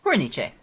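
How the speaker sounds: "Cornice" said kor-NEE-chay; "Cornice" the Italian way, kor-nee-chay; Italian pronunciation. Shown as a demonstration. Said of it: "I'm right".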